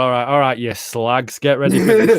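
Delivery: lightly deepened comic announcer; deep comedy voice. Retold or imitated. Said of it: "I'd make it sound really deep".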